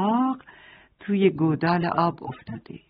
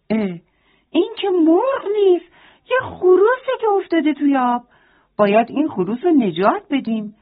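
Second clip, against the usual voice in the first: shouting rooster; 4 semitones higher than usual. Acted. Rooster shouting to the hen about the drowning rooster. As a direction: cry out in shock like a startled rooster. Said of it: "فریاد زد".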